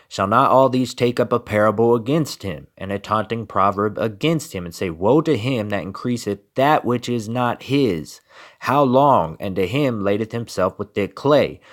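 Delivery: measured biblical reading voice; scripture reading. Acted. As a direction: read the verses like a preacher at the pulpit. Reads scripture.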